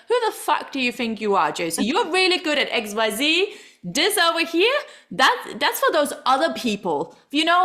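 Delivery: a mock mean inner voice, sneering at herself; mean inner critic. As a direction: imitare la propria critica interiore, un po' più acuta e più forte. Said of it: "I have quite a mean voice".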